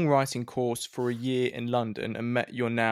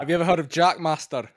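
a put-on Scottish accent, playing it up; mock Scottish accent asking a question; terrible Scottish accent; 3 semitones higher, 3 dB louder than usual. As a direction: mimic a Scottish DJ in a hammy Scottish accent. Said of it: "That was a terrible accent".

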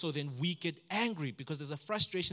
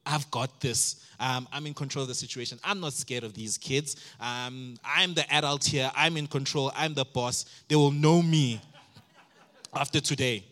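mock-confident boasting, louder; cocky dad; 6 dB louder than usual. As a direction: swagger like dad of the year. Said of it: "And I'm just like".

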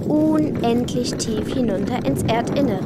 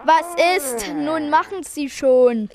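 drängend laut; 2 semitones higher, 3 dB louder than usual. Acted. Mädchen drängen den Löwen.

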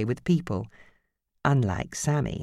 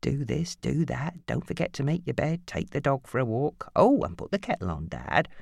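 mimicking Nancy; 4 dB quieter than usual. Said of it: "summed up Nancy's character".

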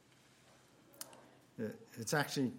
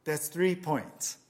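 cheerful Peter; 3 semitones higher, 5 dB louder, slower than usual. Acted. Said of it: "Peter says".

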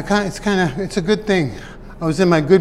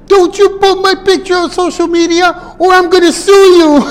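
much higher, louder mock mother threatening through a laugh; imitating mom; 12 semitones higher, 6 dB louder than usual. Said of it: "She goes".

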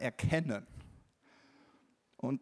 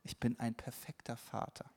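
inner affirmation; 3 semitones lower, 8 dB quieter than usual. Retold or imitated. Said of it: "innerlich zu mir immer gesagt hab".

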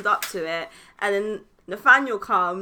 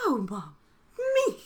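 high, laughing "Me?" half crying; laughing disbelief; 8 semitones higher, 5 dB louder than usual. Retold or imitated. Telling her mum it's her baby, laughing exasperated.

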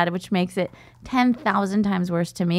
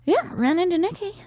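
mock dad voice; 11 semitones higher than usual. Dad quoted, high voice.

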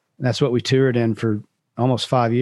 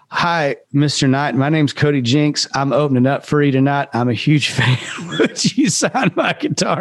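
flustered second try. Retold or imitated. Nervous fan repeating his rehearsed speech to the star, flustered. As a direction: stumble through the practiced greeting again. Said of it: "I gotta say all that over again".

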